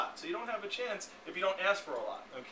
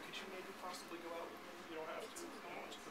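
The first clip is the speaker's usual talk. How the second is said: much softer, fast, apologetic; timid asker; 14 dB quieter than usual. Retold or imitated. Trainer mocking a timid date request, soft and fast. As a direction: mumble it like you expect a no. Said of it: "it makes you feel weird".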